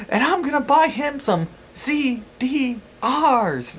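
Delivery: high, slow redneck voice spacing out "C D Rs"; pauses between letters. Retold or imitated. Mother naming newfangled technology, "C D Rs" said with big pauses. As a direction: split "C D Rs" letter by letter, high and drawn out. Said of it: "like, with a pause".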